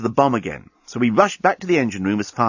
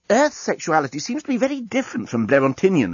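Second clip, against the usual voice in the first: alien journalist voice; 6 semitones higher than usual. Acted. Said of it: "observed the journalist".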